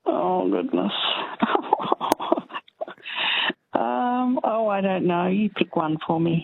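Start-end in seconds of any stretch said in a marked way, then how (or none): 1.0-3.5 breathy, drawn-out laugh; real nervous laughter; flustered laugh. Real, not acted. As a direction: laugh helplessly at being put on the spot. Caller stumped by choice of topic.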